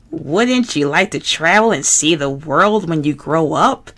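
earnest, patient Bert, lightly voiced; fussy puppet explaining seriously. Bert voice, wistful.

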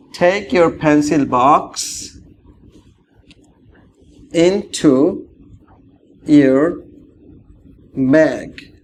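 tie your tie stretched out very slowly; slow model phrase. Shown as a demonstration. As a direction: draw out each word for learners. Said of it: "slow model phrase".

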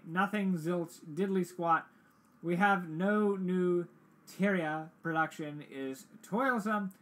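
lightly put-on vague European accent. Doctor refusing the player a new reply, in a European accent. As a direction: speak broken English with a light European accent. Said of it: "The accent sounds European".

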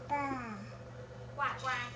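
duck quack. Shown as a demonstration. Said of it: "What does a duck say?".

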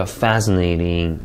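slow "Fascinating" with its first syllable stressed; careful word stress. Shown as a demonstration. Teacher models "Fascinating" for students, careful word stress. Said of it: "강세를 주의해서 한번 읽어볼게요".

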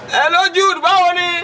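high-pitched boss's hello; hearty greeting. Acted. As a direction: hail the gateman from on high. Boss greets his gateman.

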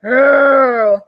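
loud growling roar; bear roar. A narrator's reading. Old Bear roaring at Baba Brenya, loud. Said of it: "Old Bear roared".

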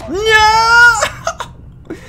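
high loud cry of no; anguished shout. Real, not acted. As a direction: wail it in despair. Dies, cries out.

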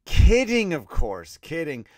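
high, loud burst of "kidding"; loud laughing take-back. Real, not acted. Host calls out to listeners that he is kidding, loud. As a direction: shout it out to undo the joke. Takes back the mean joke.

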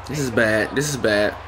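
low, quiet dread; soft, low and defeated; resigned worry. Real, not acted. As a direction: say it under the voice as defeat nears. Losing the match.

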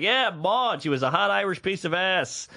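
lightly voiced cliché Brooklyn driver; animated Brooklyn guy. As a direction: imitate a Brooklyn guy reminiscing. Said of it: "he was so animated and so cliche".

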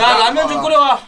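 high, loud call across to someone; loud order. Real, not acted. Host calls out for someone to cook ramen, loud order. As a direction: holler a casual command.

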